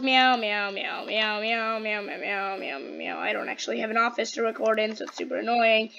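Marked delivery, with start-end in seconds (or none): 0.0-3.2 meowing that fades. Pretend. Player masking noise nearby, meows winding down. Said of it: "Just screaming this in the mic".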